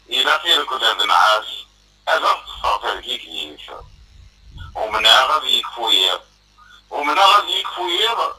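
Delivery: measured verse delivery with pauses between lines; spoken poetry in rhythmic phrases; poem recitation. Acted. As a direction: recite it line by line, pausing after each.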